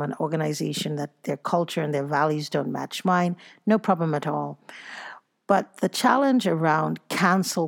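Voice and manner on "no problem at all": breathy whispered afterthought; voiceless little aside. Real, not acted. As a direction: drop to a whisper, as if to yourself. Aside after listing her boundaries.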